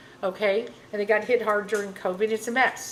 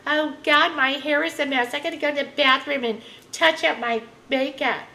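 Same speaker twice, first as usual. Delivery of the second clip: higher, mocking Karen voice; 5 semitones higher than usual. Mocking a Karen fussing over sweat, higher mock voice. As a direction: play up the fussy Karen. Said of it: "Oh, you, you Karens".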